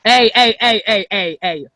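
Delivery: jokey Canadian "hey, hey, hey"; mock Canadian. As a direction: rattle it off as a cartoon Canadian. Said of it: "I'll speak in Canadian".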